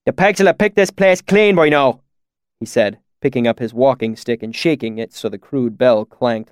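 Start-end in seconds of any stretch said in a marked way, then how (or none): 0.0-2.0 higher-pitched country pig farmer, broad dialect; rustic swineherd. A narrator's reading. Swineherd telling of strange woods, in rustic dialect. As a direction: talk like a bumpkin herding hogs.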